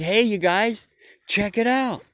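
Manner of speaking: he's found freedom and can't wait to share it; eager Bob. Acted. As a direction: sheep urging friends out of the pen. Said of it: "And Bob went back and said".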